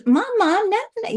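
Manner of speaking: put-on high childlike voice; imitating a little daughter calling out; little girl voice. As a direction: voice her as a small girl calling mama. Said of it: "I can hear her little voice".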